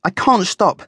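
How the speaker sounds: high, squeaky guinea pig voice; little animal's high squeal; squeaking. A narrator's reading. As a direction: squeak it out excitedly. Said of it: "Fuzzy squeaked".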